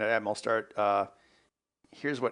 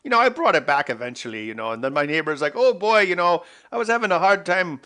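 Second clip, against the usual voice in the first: hammed-up Canadian accent, higher and louder; mock Canadian accent; 4 semitones higher, 5 dB louder than usual. Answering people who think he's Canadian, hammed-up Canadian accent. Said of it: "I'll give you Canadian".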